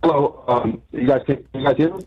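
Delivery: caller's voice muffled over the phone. Real, not acted. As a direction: speak like the phone is held away. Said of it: "You're a bit muffled".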